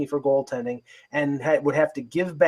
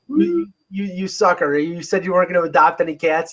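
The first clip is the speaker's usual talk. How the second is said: playful teasing; 3 semitones higher, 4 dB louder than usual. Real, not acted. Teasing co-host about cats.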